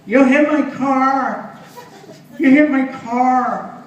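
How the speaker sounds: slow, high, loud furious shout; mock-furious yell at the driver; angry yell. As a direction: bellow it like an outraged little man. Angry midget yelling at driver.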